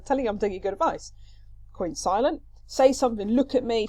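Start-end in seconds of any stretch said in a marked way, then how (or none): 2.7-3.9 mildly exasperated, higher demand; frustrated. Acted. Nurse to the silent Queen, frustrated. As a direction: push for a response, a touch frustrated. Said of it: "She's getting quite frustrated".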